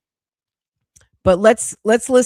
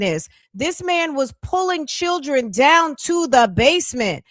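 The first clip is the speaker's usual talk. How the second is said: angry rant; 4 semitones higher than usual. Real, not acted. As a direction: scold her like you can't believe it. Ranting at Annette's testimony.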